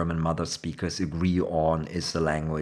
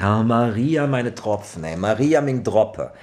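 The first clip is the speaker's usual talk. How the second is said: loud, higher-pitched oath, like crying "Jesus!"; exasperated exclamation; 5 semitones higher, 7 dB louder than usual. Shown as a demonstration. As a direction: exclaim it as a swearword of disbelief. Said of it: "you use it like Jesus".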